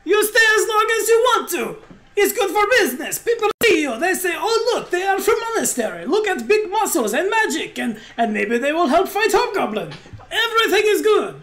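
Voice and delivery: high, exuberant innkeeper calling out in broken English; Yuli. Acted. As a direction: holler a cheery welcome in a high, accented character voice. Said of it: "Yuli leans out from his inn and shouts".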